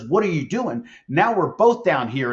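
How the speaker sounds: half-acted stunned question from down in the hole; lightly voiced disbelief; mildly stunned. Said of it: "is stunned and looks at the leader and says".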